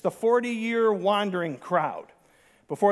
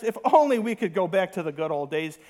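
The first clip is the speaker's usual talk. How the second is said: laughing through a mock nostalgic line; laughing mock quote. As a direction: poke fun while chuckling. Imitating nostalgic people, laughing.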